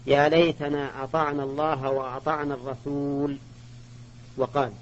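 الرسول recited short, ending on the l with no alif; reading without the alif. Shown as a demonstration. Teacher reciting the verse again for students, الرسول without its alif. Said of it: "قراءة واحدة".

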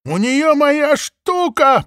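high, slow bleating sheep cry. A narrator's reading. Heide bleats, upset that Maple has her thing. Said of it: "проблеяла Хайда".

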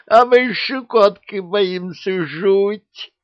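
high, slow, delighted monster voice; beaming with happiness. A narrator's reading. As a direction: glow with joy as a silly beast. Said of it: "сияя от счастья".

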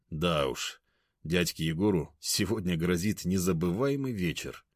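ordinary delivery, nothing marked

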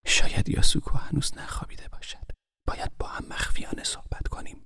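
secretive whisper into his ear. A narrator's reading. Niece confiding in uncle's ear, hushed whisper. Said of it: "زمزمه کرد".

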